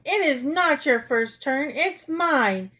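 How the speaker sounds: mildly hammed-up quarrelsome yell.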